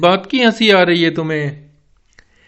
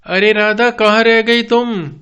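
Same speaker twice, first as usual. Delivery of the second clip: raised voice hurrying his wife along; calling out urgently. Acted. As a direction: call her over fast, the snake is close. Father urging wife to hurry.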